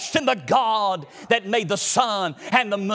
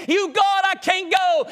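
higher pleading cry; 7 semitones higher than usual. Acted. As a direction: cry out to God that you can't go. Anointed pleads with God.

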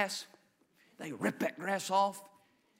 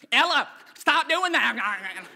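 slow, loud mock scold with a laugh; mock big brother; 5 semitones higher, 8 dB louder, slower than usual. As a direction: scold like an annoyed older brother. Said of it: "she always got an older brother".

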